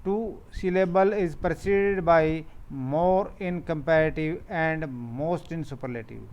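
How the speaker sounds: slow, deliberate dictation of the rule; reading a rule aloud. Shown as a demonstration. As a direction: read it out word by word for the class. Teacher reads rule slowly. (नियम धीरे-धीरे पढ़कर सुनाना)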